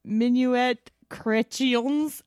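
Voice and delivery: slow, careful attempt at French; French pronunciation. Shown as a demonstration. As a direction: sound out the French words slowly. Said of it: "I am gonna try to speak French".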